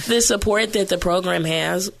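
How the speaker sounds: teary laugh breaking through; laughing through tears. Real, not acted. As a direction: laugh it out, still emotional.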